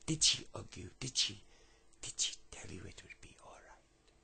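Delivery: breathy, half-whispered French encouragement; rough French accent. Acted. Homeless man comforts lad mid-story, rough French accent. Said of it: "I can't do a brilliant French accent".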